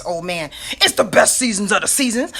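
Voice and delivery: lightly voiced Cookie Monster; a hint of a puppet monster. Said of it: "I get this little Cookie Monster voice".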